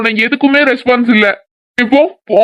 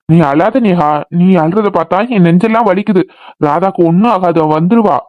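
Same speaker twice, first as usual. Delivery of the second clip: tender consoling; 4 semitones lower than usual. Acted. Brother comforts his crying sister Neha, low and tender. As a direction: soothe her gently.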